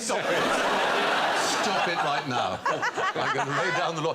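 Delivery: put-on lilting Welsh accent, playful; mock-stern Welsh accent. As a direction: put on a sing-song Welsh voice. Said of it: "Mocking my Welsh accent".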